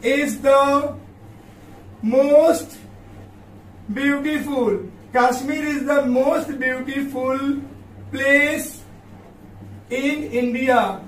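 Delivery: long pauses between each word; word-by-word dictation. Shown as a demonstration. Teacher to students dictating the example, word by word. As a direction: spell out the sentence one slow word at a time. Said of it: "देखो बच्चों, कश्मीर".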